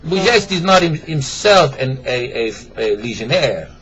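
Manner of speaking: put-on French accent. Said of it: "start over with an accent".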